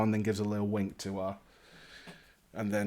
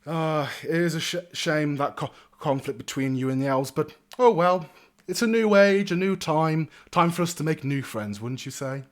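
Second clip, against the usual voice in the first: breezy lordly voice, lifting on the upbeat turn; cheery young lord; 4 semitones higher, 4 dB louder than usual. Acted. Young lord offers friendship to strangers, cheery and lordly. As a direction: wave old quarrels away grandly.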